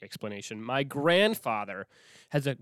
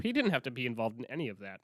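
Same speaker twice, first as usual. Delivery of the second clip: ordinary delivery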